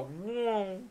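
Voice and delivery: long drawn-out "whoa" sound effect; fly take-off noise. Retold or imitated. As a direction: imitate a fly lifting off. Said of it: "Or they go".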